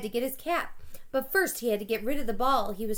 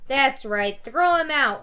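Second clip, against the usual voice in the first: woman shrieking; 3 semitones higher, 8 dB louder, slower than usual. A narrator's reading. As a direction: screech it from the stands. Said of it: "a woman shrieked".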